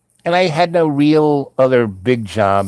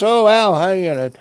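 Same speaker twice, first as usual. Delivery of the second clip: higher-pitched, pleased recognition; imitated surprised greeting; 8 semitones higher than usual. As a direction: act out greeting someone you know. Inspector's acted greeting back.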